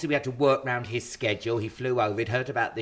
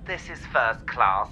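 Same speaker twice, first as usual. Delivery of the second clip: mock train announcement.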